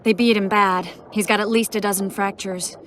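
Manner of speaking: loud and pressed, a badly beaten man beside her; urgent call for help. Sorceress urging Geralt over a wounded man, loud and urgent. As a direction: call out, no time to lose.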